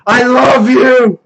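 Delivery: loud, slow, high gushing I love you; euphoric gushing. Retold or imitated. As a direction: gush like a blissed-out orc. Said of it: "they're just like".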